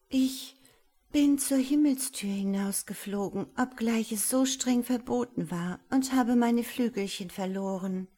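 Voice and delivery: high, timid angel confessing; a small angel owning up to her fault; little angel. Acted. Little angel confesses her lost wings to the wizard, high and timid.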